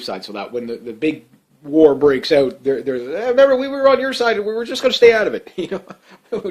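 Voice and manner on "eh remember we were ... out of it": high-pitched, louder mock backing-out; imitated weaselling out, pitched up; mock pleading excuse. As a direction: make a raised-pitch excuse, playing another country. Voicing France excusing itself from war.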